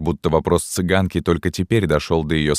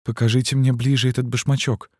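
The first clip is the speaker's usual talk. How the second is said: trembling exclamation; 7 semitones higher than usual. A narrator's reading. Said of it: "воскликнула цыганка, вся затрепетав".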